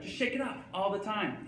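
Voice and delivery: put-on high, girlish falsetto; light high-pitched pop star encouragement; a pop star. Pop star on his shoulder urging him on, high falsetto. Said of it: "saying things like".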